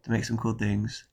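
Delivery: nasal voice from a cold; talking through a stuffy nose; blocked nose. Real, not acted. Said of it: "over my nasally voice".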